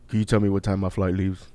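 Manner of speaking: low-pitched imitation of a big man; mock deep-voiced traveler. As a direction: drop into a deep voice to ask. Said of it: "like, deep ass voice".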